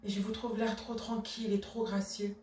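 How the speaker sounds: soft, low, controlled reproach; restrained indignation. Acted. Wife demanding justice from her husband, restrained indignation. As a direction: hold the offence in, keep it quiet.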